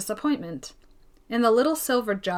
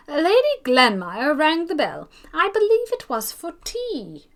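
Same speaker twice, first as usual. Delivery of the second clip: put-on flustered old lady; 7 semitones higher, 5 dB louder than usual. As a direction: apologise to the butler in a fluster. Mrs Jameson explains to butler.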